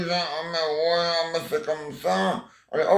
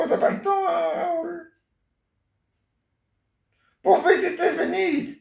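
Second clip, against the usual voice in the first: much higher put-on wife voice; grandma playing the wife on a pretend phone call, voice pitched way up; 12 semitones higher than usual. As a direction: play the wife calling her husband on the phone, high and sweet.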